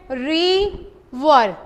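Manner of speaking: वाटर split into two slow syllables. Shown as a demonstration. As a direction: pull वाटर apart, syllable by syllable. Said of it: "इसको separate करें".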